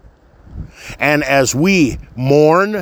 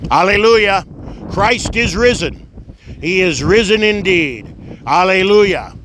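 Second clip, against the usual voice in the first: raised, ringing Alleluia; joyful acclamation; 4 semitones higher than usual. Real, not acted. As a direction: proclaim it with joy. Easter acclamation at a funeral.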